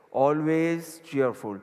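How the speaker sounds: words stretched out slowly for writing; slow dictation again. Shown as a demonstration. Guru repeating the phrase for notes, very slow. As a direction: spell it out slowly for the listeners. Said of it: "ઇંગ્લિશમાં લખો".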